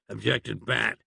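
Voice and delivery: ordinary delivery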